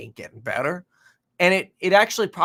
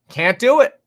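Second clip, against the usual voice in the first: higher and louder, driving it home; louder emphatic repeat; 6 semitones higher, 8 dB louder than usual. Shown as a demonstration. Vlogger hammering his point to viewers, loud and emphatic. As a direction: say it again with more force. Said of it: "emphatic repeat".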